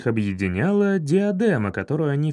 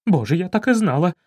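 overjoyed; 3 semitones higher, faster than usual. Acted. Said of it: "обрадовалась фальшивая баронесса".

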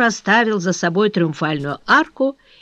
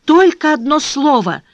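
imploring, rising on только; умоляющим тоном; pleading tone; 3 semitones higher than usual. A narrator's reading. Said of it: "проговорила Вишня умоляющим тоном".

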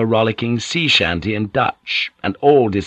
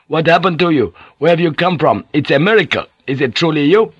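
high, breathless-with-wonder questioning; overjoyed disbelief; 7 semitones higher, 4 dB louder than usual. A narrator's reading. Van Neck finding his pilot alive, overjoyed disbelief. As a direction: tumble out amazed questions. Overjoyed at lost friend's return.

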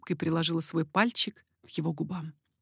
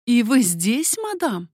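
louder, rising to a high astonished question; growing astonishment; 4 semitones higher, 6 dB louder, slower than usual. A narrator's reading. Margarita finds the baroness here too, raising her voice in surprise. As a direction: voice climbs as the surprise grows. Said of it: "всё больше изумляясь и в то же время повышая голос".

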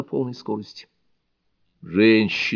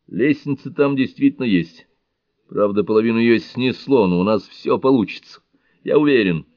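higher, louder, confident; eager report; 4 semitones higher, 5 dB louder than usual. Acted. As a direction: bring good news with conviction. Фрэнк вернулся с новостью. (уверенно и воодушевлённо, выше и громче)

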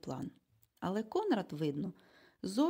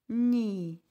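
louder agitated cry of no; excited exclamation; 3 semitones higher, 7 dB louder than usual. A narrator's reading. Egon cries out against the plan, agitated. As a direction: blurt it out, alarmed. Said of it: "схвильовано вигукнув пан Егон".

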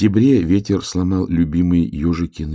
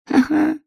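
высокий издевательский смешок; посмейся свысока; насмешливое ха-ха. A narrator's reading. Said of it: "сказала рысь". (рысь высоко и насмешливо смеётся)

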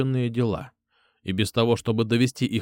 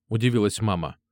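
usual speaking voice

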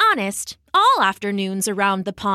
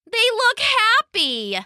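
puzzled warty frog; slower than usual. A narrator's reading. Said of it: "said the warty one".

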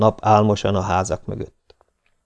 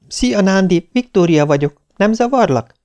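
put-on higher, friendly girl's voice; a bright young woman calling a friend, higher; young woman on the phone; 11 semitones higher, 3 dB louder than usual. Viktória calls Nándi at dinner, friendly higher voice.

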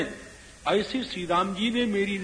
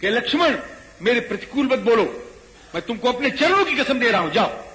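higher, insistent order; firm command; 4 semitones higher, 4 dB louder than usual. Retold or imitated. Storyteller as Ram orders his brother away, firm raised voice. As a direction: overrule him, raised and urgent.

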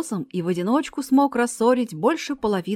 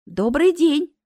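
higher-pitched friendly hello; polite, lifted hello; cheerful greeting; 6 semitones higher, 4 dB louder, slower than usual. A narrator's reading. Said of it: "поздоровалась в ответ Марина".

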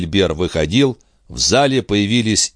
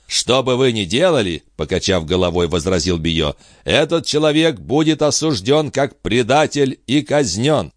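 a stern avenger, high and deliberate; grim prophetic stranger; 4 semitones higher than usual. Acted. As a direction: speak like a prophet of doom to the king. Bio's verdict.

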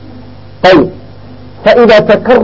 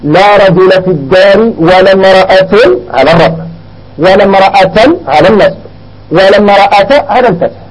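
slow model sentence. Shown as a demonstration. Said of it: "نقول هكذا".

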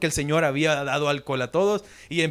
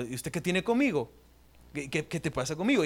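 distancing retort; 7 dB quieter than usual. Shown as a demonstration. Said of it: "expresión del idioma ... creando una separación".

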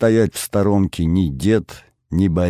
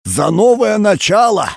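put-on high, creaking old grandfather toast; very old man; 7 semitones higher, 3 dB louder than usual. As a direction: croak it out like an old man raising a glass. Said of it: "прокряхтел дед".

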